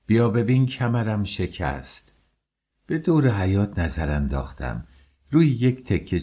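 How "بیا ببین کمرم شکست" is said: grieving wail. Acted. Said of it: "به سینه میکوبید".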